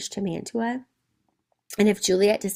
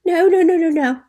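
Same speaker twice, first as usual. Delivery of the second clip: loud, higher rapid string of refusals; indignant refusal; 7 semitones higher, 9 dB louder than usual. Acted. Teacher voicing Juliet refusing the wedding, indignant and loud. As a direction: cut in loudly, pitch jumping up.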